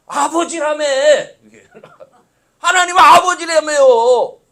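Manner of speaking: loud teasing protest to God, laughing; playful protest. Acted. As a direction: call God out like a child, half laughing.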